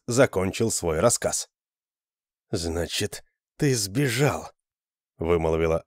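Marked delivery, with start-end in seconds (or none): 2.5-4.5 cold. Acted. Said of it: "Даже судья ... мог говорить добрее".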